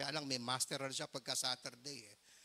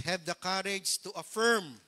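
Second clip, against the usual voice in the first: emphatic appeal; 8 dB louder, slower than usual. Real, not acted. Pastor urging fathers from pulpit.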